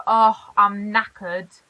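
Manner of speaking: slow, loud, drawn-out "Oh, I'm knackered"; weary knackered sigh. Shown as a demonstration. Telling viewers how she says she's tired, slow and weary. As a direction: groan it out like you're worn out. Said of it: "Yeah, I go".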